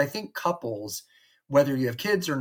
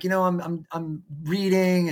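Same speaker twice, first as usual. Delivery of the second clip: Luke excuse; 5 semitones higher than usual. Retold or imitated. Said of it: "Luke would have been like".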